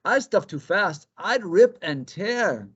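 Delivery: high, quick bunny voice; jittery rabbit. Acted. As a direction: bounce through it like a hyper hare. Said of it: "said Conejo".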